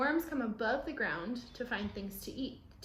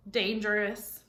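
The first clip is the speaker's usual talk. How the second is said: surprised question; 7 dB louder than usual. Acted. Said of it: "I stared at her".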